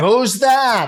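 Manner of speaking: put-on confused old person voice. Joking about a confusing book, imitating a senior citizen at the movies. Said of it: "the senior citizen, ... that's always behind me in the movies going".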